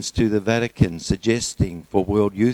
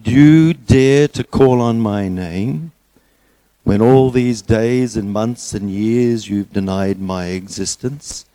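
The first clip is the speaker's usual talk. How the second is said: booming voice of God; 5 dB louder, slower than usual. Acted. Voice of God rebukes man.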